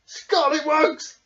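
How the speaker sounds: slow, loud booming bellow. Acted. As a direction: roar at the intruders. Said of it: "bellowed Bear".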